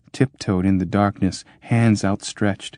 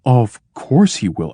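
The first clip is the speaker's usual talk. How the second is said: soothing; 3 semitones higher, 3 dB louder than usual. Acted. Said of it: "said the mediator, soothingly".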